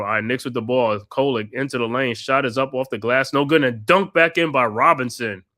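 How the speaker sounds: steady courtside play-by-play, naming each pass; play-by-play call. Acted. Fan calling the game for his co-host, play-by-play. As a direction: narrate the action like a broadcaster.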